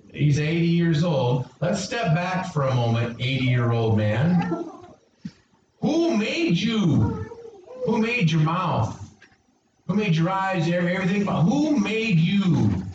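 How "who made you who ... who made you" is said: sarcastic God. Acted. God rebuking Moses with mock questions. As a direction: needle him like a father scolding. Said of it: "This is sarcasm".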